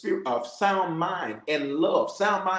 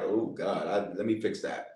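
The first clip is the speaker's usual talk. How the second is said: low, soft voice of someone caught out; convicted believer; 9 semitones lower, 7 dB quieter than usual. Acted. Believer checking themselves after the Holy Ghost snatches them up, convicted. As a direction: drop low and quiet, a sheepish self-correction. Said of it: "you're gonna feel like".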